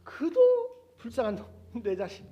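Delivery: the father groaning over his poor son; father's pity. Acted. Father lamenting his older son, slow and loud.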